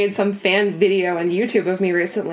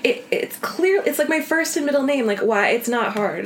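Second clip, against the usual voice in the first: exasperated retort; 4 semitones higher than usual. Retold or imitated. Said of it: "and I'm like".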